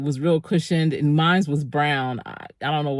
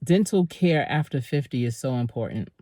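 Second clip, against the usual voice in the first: talking through a numbed, swollen mouth; 3 semitones lower than usual. Real, not acted. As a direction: lips stiff from anesthesia. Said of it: "They injected me with anesthesia on that side".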